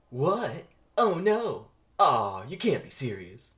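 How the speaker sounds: loud, high shocked whine; shocked frustrated player; dismayed. Acted. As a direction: groan in disbelief. Ken dismayed at bad shot.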